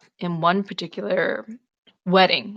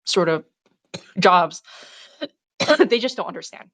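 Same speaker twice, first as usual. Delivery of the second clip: coughing through the words; choking. Real, not acted. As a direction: talk while choking on a cough. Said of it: "choking on myself".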